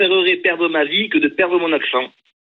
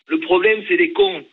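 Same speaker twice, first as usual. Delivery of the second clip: punchline; 13 semitones higher than usual. Real, not acted. Caller lands his point to the hosts in a much higher voice. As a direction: voice jumps way up for the punchline.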